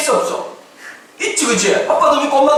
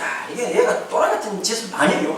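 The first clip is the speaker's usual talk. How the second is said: ordinary delivery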